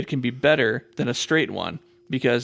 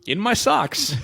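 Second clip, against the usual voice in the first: laughing; 9 semitones higher, slower than usual. Pretend. Rhyming game, playful voice.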